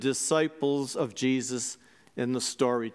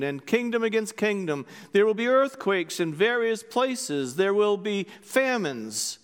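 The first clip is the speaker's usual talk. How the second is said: gospel proclamation; 2 semitones higher than usual. Acted. Priest proclaiming the gospel to the congregation, lifted and solemn. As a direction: proclaim it to the whole church.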